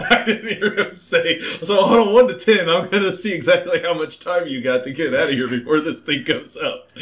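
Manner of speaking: high, giggling gleefully; laughing. Real, not acted. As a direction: talk through the laughter.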